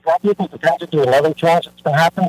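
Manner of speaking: phone line breaking up; bad phone connection cutting out; radio breaking up. Real, not acted. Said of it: "You're breaking up a lot".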